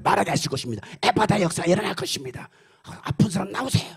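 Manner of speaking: lightly mimicked revival preacher; imitating an impassioned faith healer; healing evangelist. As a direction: proclaim healing to a crowd, building to the call.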